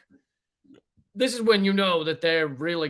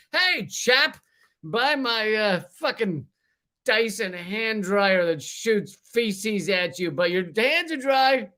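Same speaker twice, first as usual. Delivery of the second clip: mock British accent; 3 semitones higher, slower than usual. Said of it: "did it with a British accent".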